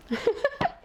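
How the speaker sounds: squeaky high cackle; high-pitched amused cackle; high laugh. Real, not acted. Laughs at own joke.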